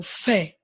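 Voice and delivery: "fé" isolated and stressed; "fé" said alone with emphasis; strong final syllable. Shown as a demonstration. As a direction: pick out "fé" firmly as the strong syllable. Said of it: "é mais forte".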